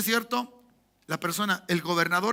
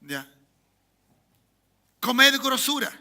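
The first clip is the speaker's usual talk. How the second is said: called command; 5 semitones higher, 5 dB louder, slower than usual. Retold or imitated. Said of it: "luego les dijo".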